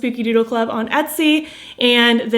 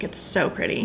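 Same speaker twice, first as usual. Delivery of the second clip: whispering; 2 semitones lower, 8 dB quieter than usual. Real, not acted. Admiring lipstick shade.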